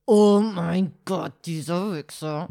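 slow, drawn-out disbelief fading into a muttered curse; stunned inner outrage. Retold or imitated. Watching a stranger shove a pram, slow stunned outrage. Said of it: "du stehst da und denkst dir so".

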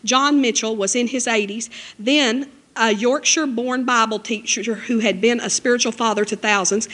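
ordinary talk, nothing marked

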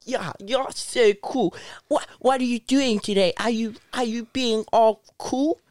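lightly put-on baby talk. Asking best friend about his day, baby voice. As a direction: question him in a light little-kid voice. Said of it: "do the baby voice".

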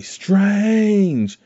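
high, delighted call of the name; happy calling out. Retold or imitated. Wong calling happily to Strange, high delighted call. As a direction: cheer his name like a happy reunion. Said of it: "He's actually saying "Strange" in a very happy way".

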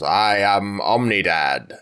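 slow, drawn-out mock Fly creature; hammed-up movie monster line, slow. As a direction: intone it like a mutant fusion, slowly. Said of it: "do a Cronenberg The Fly style".

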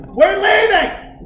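high, drawn-out indignant call; indignant shout. Retold or imitated. Offended woman rallying her girlfriends to leave, indignant shout. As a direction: announce the exit loudly, dragging it out. Retold girl storming out of bar.

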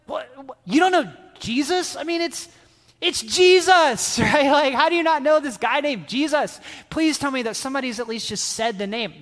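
high, incredulous disbelief; can't believe the kid never heard of him; stunned disbelief. Retold or imitated. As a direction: youth leader stunned a child never heard of Jesus, incredulous. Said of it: "I was literally speechless".

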